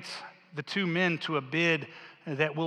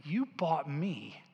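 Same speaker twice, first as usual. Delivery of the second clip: sincere resolve; 6 dB quieter than usual. Acted. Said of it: "she finally says".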